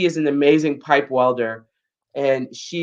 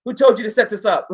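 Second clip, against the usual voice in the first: retold angry demand, louder and higher; mad; 7 semitones higher, 6 dB louder, faster than usual. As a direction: imitate an instructor who is mad. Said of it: "she was mad".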